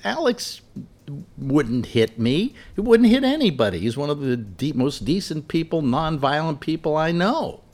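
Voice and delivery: imitating Lori. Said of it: "she went".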